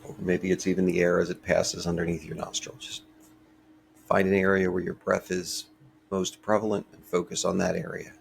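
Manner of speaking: calm, unhurried meditation voice with long pauses; guided meditation. Real, not acted. Teacher leading a short breathing meditation for listeners, calm and measured. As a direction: gently guide listeners through each breath, leaving space between phrases.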